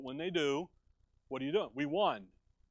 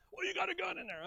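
mock onlooker; 13 semitones higher, 4 dB quieter, faster than usual. Imagined person questioning him.

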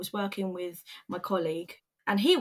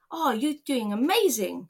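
higher-pitched retold gush; mildly hammed-up, higher praise from the boss; 4 semitones higher than usual. Manager praising the worker in the barn, gushing.

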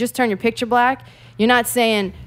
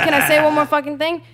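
higher, insistent repeat; 6 semitones higher than usual. Real, not acted. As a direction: demand the floor. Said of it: "repeats louder to get the floor".

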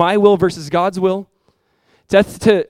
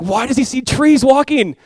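puzzled question; 9 semitones higher, 6 dB louder, slower than usual. Retold or imitated. Retelling his past puzzlement.

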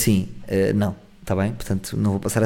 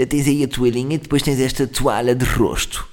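slow, fussy, precious host voice; a pretentious host showing towels; prissy host; slower than usual. Retold or imitated. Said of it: "Sabem aquelas pessoas que dizem". (anfitriã afetada, lenta)

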